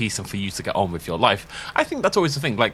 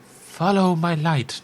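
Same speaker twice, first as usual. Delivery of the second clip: put-on slow, creaky gremlin old woman; a touch of gremlin in the old lady; 5 semitones higher, slower than usual. Player trying an old woman voice, still gremlin-like. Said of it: "I can't do old and not gremlin".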